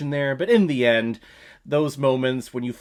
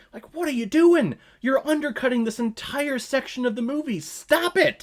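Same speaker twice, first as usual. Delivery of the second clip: exasperated; 12 semitones higher than usual. Real, not acted. Exasperated rant at filmmakers.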